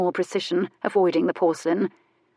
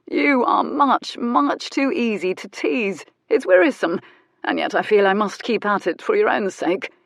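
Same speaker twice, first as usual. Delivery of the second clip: mock weary teasing; 3 semitones higher than usual. Mock grave teasing continues.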